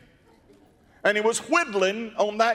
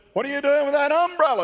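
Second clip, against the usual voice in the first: high, quick, slightly louder mother's question; a lightly voiced puzzled mother; questioning mama; 7 semitones higher, 3 dB louder, much faster than usual. Preacher voicing a mother questioning her little girl, puzzled.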